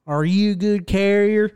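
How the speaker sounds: a lightly voiced gruff crew chief; gruff boss impression. Retelling the pit boss, half-hearted gruff impression. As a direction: mimic the boss asking, barely gruff. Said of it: "That was ter-, that was terrible".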